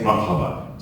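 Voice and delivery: marhaba said in Arabic with a plain American accent. Shown as a demonstration. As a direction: say marhaba like an American learner, not quite native. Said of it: "to say it with a bad accent, as I do".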